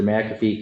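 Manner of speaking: McAfee stressed up front, MACK-uh-fee; corrected pronunciation. Real, not acted. Judge retrying the defendant's name, carefully stressed as MACK-uh-fee. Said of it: "I keep saying that wrong".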